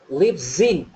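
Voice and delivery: "lives in" run together as "Lipzin"; slow joined-up "Lipzin"; linked lives in. Shown as a demonstration. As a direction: slide the end of "lives" into "in": "lip-zin". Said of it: "chúng ta sẽ đọc là".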